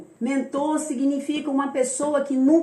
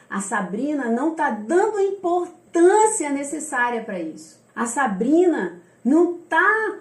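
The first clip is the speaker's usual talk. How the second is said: imagined complaint; 3 semitones higher, 3 dB louder than usual. Retold or imitated. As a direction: quote a critic grumbling, stretching the key words. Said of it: "a pessoa pode pensar".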